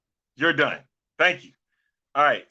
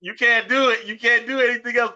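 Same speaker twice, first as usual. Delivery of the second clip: squeaky high chipmunk voice; 11 semitones higher, 6 dB louder than usual. Pretend. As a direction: talk like a sped-up chipmunk. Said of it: "you gotta come with your chipmunk voice".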